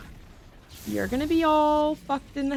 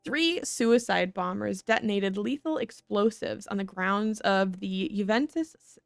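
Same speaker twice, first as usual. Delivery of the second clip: news read. Acted. Reads in-game news report aloud.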